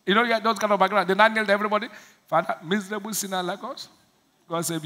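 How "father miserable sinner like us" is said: mock groveling prayer. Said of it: "the kind of prayers we pray".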